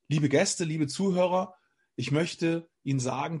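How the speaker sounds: measured, deliberate greeting to an audience; retold prepared opening speech; composed stage address. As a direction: address the listeners in careful phrases. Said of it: "in einer bestimmten Frequenz geredet hat".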